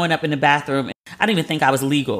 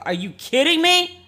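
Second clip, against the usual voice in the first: a slow, high squeal of outrage at the nerve; mock outraged disbelief; high incredulous; 12 semitones higher than usual. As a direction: pitch shooting way up, drawn out in disbelief. Outrage at the woman's email.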